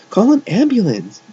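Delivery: very high, loud yell for help; screamed. A narrator's reading. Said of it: "Jeff screamed".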